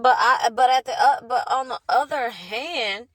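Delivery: talking through a small bitter laugh; rueful laugh. Real, not acted. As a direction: laugh it off while still hurting. Laughs through painful story.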